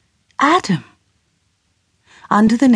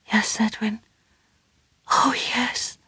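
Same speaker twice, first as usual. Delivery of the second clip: soft, much quieter whispered answer; whispered yes; 5 semitones higher, 8 dB quieter than usual. Acted. Emma whispers her answer.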